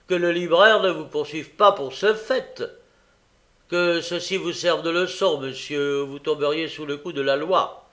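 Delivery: loud, high, lecturing rebuke; pompous magistrate. Acted. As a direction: scold from the bench.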